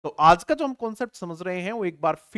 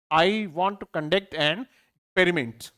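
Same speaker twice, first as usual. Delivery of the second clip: slow dictation; much slower than usual. Shown as a demonstration. Teacher dictates the sentence slowly for the class. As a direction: read it word by word, very slowly. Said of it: "answers भी फटाफट करते जाएंगे".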